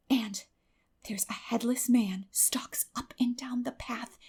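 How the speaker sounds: slow, hushed ghost-story whisper; spooky whisper. A narrator's reading. Anne spooking Marilla with the white lady, whispered. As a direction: tell it like a campfire tale.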